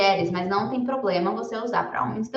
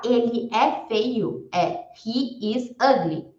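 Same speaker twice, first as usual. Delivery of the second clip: slow demo; 2 semitones higher, slower than usual. Shown as a demonstration. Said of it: "E se eu for falar".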